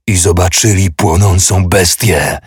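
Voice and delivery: shouted quote. Acted. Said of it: "krzyknął Gerland".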